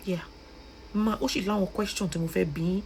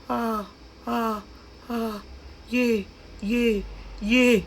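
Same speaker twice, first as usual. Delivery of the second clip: repeated short wails, raised in pitch; lamenting cries; 4 semitones higher, much slower than usual. Real, not acted. Vlogger lamenting Maureen's fate, lamenting cries. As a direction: cry "ah" and "yé" in separate bursts.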